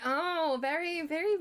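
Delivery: slow, high mock-posh drawl on very fancy. Teachers mocking her rich family with a slow posh voice. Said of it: "they were like".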